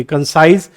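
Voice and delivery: कंसाइज, stressed on साइज; stress on second syllable. Shown as a demonstration. Teacher reading a transcription to learners, stress on साइज in कंसाइज. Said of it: "second syllable पे".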